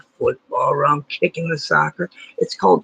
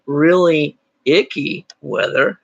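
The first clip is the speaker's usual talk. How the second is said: slow emphasis; slower than usual. Shown as a demonstration. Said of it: "but you could say".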